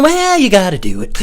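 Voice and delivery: high, loud goofy outburst; put-on high, loud voice; goofy catchphrase voice. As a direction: blurt it like a cartoon catchphrase. Running catchphrase bit in put-on voice.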